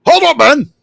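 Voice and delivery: high, loud officer's shout; commanding shout. Acted. Officer halting his men on seeing strangers, shouting. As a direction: shout an order to halt. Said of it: "before raising a hand and shouting".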